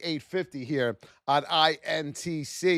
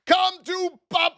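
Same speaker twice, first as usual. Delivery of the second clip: high and loud, reliving the win; triumphant yell; 11 semitones higher, 5 dB louder than usual. Retold or imitated. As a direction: belt it like the trade just paid off. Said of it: "I might have yelled out".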